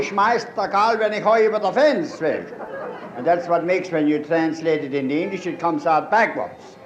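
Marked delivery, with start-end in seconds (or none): 0.0-2.4 Pennsylvania Dutch. Shown as a demonstration. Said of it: "the Dutch would be".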